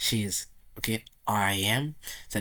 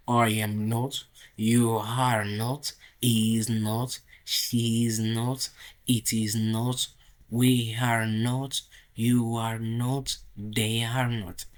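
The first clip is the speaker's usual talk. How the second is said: "not" said slowly and a bit louder each time; slow classroom repetition of the negatives; slow drill; 4 dB louder, much slower than usual. Shown as a demonstration. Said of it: "on ajoute juste not". (répétition lente de la forme négative)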